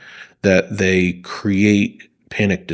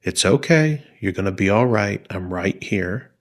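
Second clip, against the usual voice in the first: calm a frightened friend gently; soothing voice. Shown as a demonstration. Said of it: "that soothing voice".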